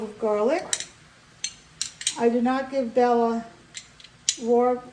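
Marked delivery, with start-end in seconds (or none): 4.4-4.8 raw with a New York vowel; New York accent. Real, not acted. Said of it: "that's my New York accent coming out".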